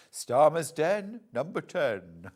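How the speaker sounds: slow, lightly voiced bingo call; bingo caller. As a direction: announce the number like a caller. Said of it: "being a bingo caller".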